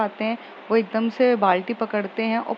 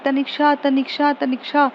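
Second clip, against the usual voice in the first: roommate calling out from the bathroom, raised and higher; shouting from the bathroom; 4 semitones higher than usual. Acted. Smriti calling Tanishka from the bathroom, a mild raised call. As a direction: call her name a bit higher, as if through a door. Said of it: "वो एकदम से चिल्लाती है".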